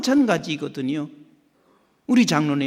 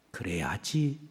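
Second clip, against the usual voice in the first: quiet, lower firm reply; calm low answer; 10 semitones lower, 11 dB quieter, slower than usual. Retold or imitated. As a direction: answer softly but firmly. God replies calmly.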